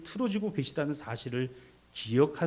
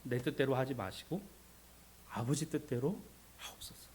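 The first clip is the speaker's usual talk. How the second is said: hushed submissive prayer; 9 dB quieter than usual. Acted. Preacher voicing Jesus praying to the Father, hushed. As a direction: pray it quietly, in surrender.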